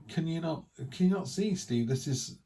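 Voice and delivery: lightly imitated childlike excitement; excited disbelief. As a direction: mimic kids amazed by snow. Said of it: "they were like".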